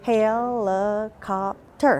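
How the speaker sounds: "Helicopter" slowed into four beats; syllable-by-syllable helicopter. Shown as a demonstration. Teacher modelling syllable counting, slow and chopped. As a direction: chop "Helicopter" into hel-i-cop-ter. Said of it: "Try helicopter".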